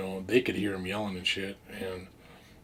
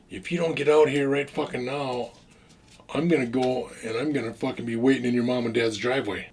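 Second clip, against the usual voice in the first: mock angry threat; 3 semitones higher, 5 dB louder than usual. Teller imitating furious Larry on the phone, mock shouting. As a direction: play Larry's threat as a hammed-up yell. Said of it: "He goes".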